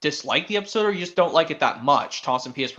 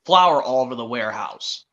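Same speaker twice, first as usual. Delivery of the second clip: lightly voiced Topham Hatt; 4 semitones lower than usual. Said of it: "Sir Topham Hatt says".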